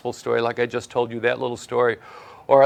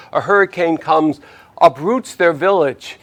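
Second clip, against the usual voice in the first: ordinary talk, nothing marked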